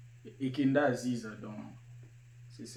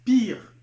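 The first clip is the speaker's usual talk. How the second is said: pire said high and loud, clearly not pur; pire, not pur, called out firmly; stressed pire; 9 semitones higher, 10 dB louder than usual. Shown as a demonstration. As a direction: hit "pire" hard and high. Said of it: "Et je répète".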